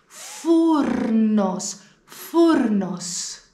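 φούρνος with ρ sounded before ν; φούρνος, ρ clearly rolled; model word. Shown as a demonstration. Teacher insists the ρ is said. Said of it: "πρέπει να το προφέρουμε".

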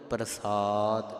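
ਪ੍ਰਸਾਦ with light r and long held ਸਾ; model recitation. Shown as a demonstration. Teacher models next verse word, drawn-out ਪ੍ਰਸਾਦ. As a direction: draw out ਸਾ in ਪ੍ਰਸਾਦ, slowly. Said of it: "ਇਸ ਤੋਂ ਅੱਗੇ ਪਾਠ ਹੈ".

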